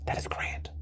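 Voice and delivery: very soft unvoiced whisper of delight. Real, not acted. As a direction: let it slip out as a breathy secret. Savouring caviar, repeated aloud.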